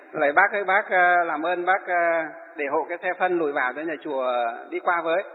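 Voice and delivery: softly, politely asking the man to move his cart; a polite monk's gentle plea; gentle request. Retold or imitated. Monk gently asks the villager to move his cart, softly polite. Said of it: "mình nói rất nhẹ nhàng".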